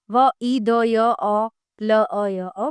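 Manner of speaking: व, ई, द, य, अ, ल, अ, य, अ as separate letter sounds; sound-by-sound breakdown. Shown as a demonstration. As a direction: split विद्यालय into its sounds, from व, ई, द through ल, अ, य, अ. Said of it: "वर्णों को अलग अलग किया जाता है".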